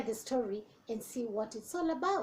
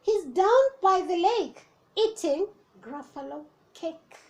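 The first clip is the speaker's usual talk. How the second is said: snake voice; 4 semitones higher than usual. Acted. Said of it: "said the snake".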